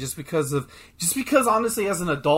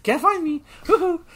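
much higher, laughing sing-song taunt; taunting Scorpion; 14 semitones higher, 5 dB louder than usual. Retold or imitated. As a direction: tease like a hiding trickster.

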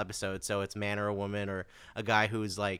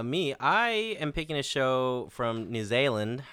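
put-on New Zealand accent; slower than usual. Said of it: "That's my New Zealand accent".

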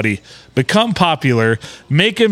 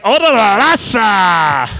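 slow, put-on Asian accent; mock Asian accent; 5 semitones higher, slower than usual. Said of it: "use an Asian accent".

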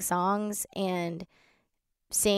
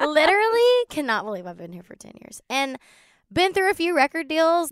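incredulous, higher-pitched and drawn out; laughing disbelief; 7 semitones higher, 3 dB louder than usual. Real, not acted. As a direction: break into a laugh, then stretch out the amazement. Laughing in disbelief at her story.

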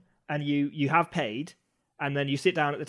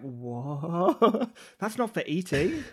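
baffled medieval peasant; much slower than usual. Retold or imitated. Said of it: "they'd be like".

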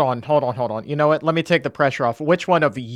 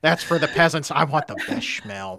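hammed-up refusal of lesser food; mock food snob; 5 semitones higher, 5 dB louder than usual. Joking host plays a diner demanding the fancy sauce, mock-snobbish. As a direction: play a picky diner, higher and louder at first.

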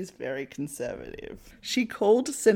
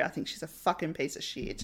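muttered insult; 4 semitones lower, 8 dB quieter than usual. Real, not acted.

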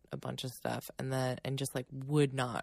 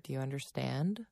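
calm reassuring; 6 dB quieter than usual. Retold or imitated. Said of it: "try to be really calm".

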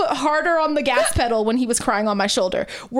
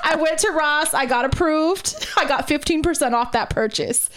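gleeful update; 4 semitones higher than usual. Retold or imitated. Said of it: "it better say".

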